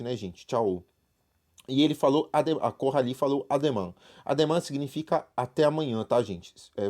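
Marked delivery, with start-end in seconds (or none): 0.4-0.8 "Tchau" with a clearly sounded final O; "Tchau" ending in a firm O; stronger final O. Shown as a demonstration. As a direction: lean on the closing O of "Tchau". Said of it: "o O é o mais forte".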